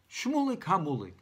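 ordinary delivery

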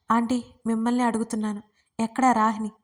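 ordinary delivery

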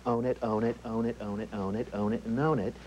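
fast, breathy real estate mogul sales pitch; rapid, airy boasting tycoon; Donald Trump. Shown as a demonstration. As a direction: push the property hard like a tycoon. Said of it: "Donald Trump has a very similar voice".

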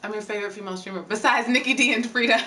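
reading aloud fast through laughter; laughing. Real, not acted.

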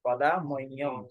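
shown sound of হ in মহ্যম; মহ্যম with হ changed. Shown as a demonstration. Teacher showing how হ sounds, মহ্যম carefully pronounced. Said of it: "হটাকে আমরা কি উচ্চারণ করলাম".

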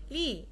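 "لي" with no final s sound; French "لي", its last letter silent. Shown as a demonstration. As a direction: end "لي" on the open ee vowel, s left silent. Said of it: "الاس à la fin de mot ne se prononce pas".

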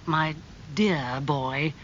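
slow, drawn-out address; mild condolence. Acted. Lord Henry greets bereaved Dorian, gently condoling. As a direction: linger sympathetically on the words.

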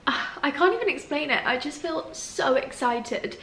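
crying with happiness before the move, tearful; happy tears. Real, not acted. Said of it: "I'm crying because I'm happy".

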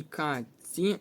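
"каці" with a long, soft ts in the middle; lengthened soft sound. Shown as a demonstration. Teacher showing pupils a lengthened soft sound, "каці" with long ц. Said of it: "Подовжений м'який звук".

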